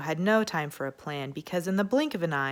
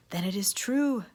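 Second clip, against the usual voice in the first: decreeing; 4 semitones higher than usual. Acted. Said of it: "decreed Don Diego".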